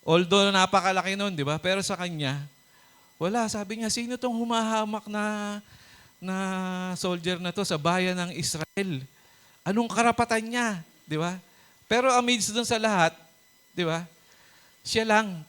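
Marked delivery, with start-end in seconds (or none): 3.9-10.7 high, indignant challenge; offended for his people; indignant David. Acted. (mataas at galit na hamon ni David)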